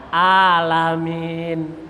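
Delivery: alamin with a plain open A, slow; wrong alamin. Shown as a demonstration. Teacher shows the wrong reading, slow. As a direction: say alamin without the throat ain. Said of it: "jangan dibaca".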